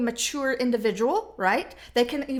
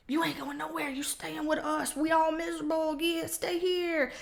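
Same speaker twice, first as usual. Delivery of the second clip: gloomy crabs; 3 semitones higher, 5 dB quieter than usual. Pretend. Crabs in the bucket, dragging one back down, mopey. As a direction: drone it like bored jailers. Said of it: "crabs voiced as gloomy".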